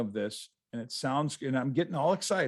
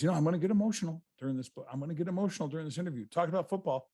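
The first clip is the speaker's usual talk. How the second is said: fast, higher retelling of an emotional owner; quick, raised impression of a soon-tearful man; imitating Jerry Jones; 4 semitones higher, 3 dB quieter, much faster than usual. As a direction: rattle it off quickly and a bit higher, like Jerry Jones warning he'll cry. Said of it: "he goes".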